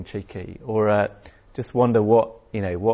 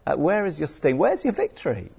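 softer, higher mock jeer; 6 semitones higher, 4 dB quieter than usual. Preacher quietly jeering at defeated death. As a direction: tease death like a child in the playground. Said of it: "Are you happy jeering at death?".

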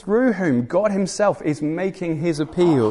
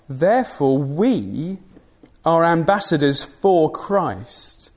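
slow, weighty reading of the verse; deliberate, measured reading from the pulpit; solemn scripture reading; slower than usual. Acted. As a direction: read it out slowly, letting each phrase land.

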